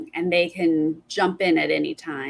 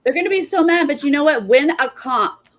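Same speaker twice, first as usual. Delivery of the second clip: high, loud, animated jab; gleeful taunt; 6 semitones higher, 6 dB louder than usual. Real, not acted. Host taunting players who will be mad, gleeful. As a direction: crow it at the sore losers. Mocking the losers' anger.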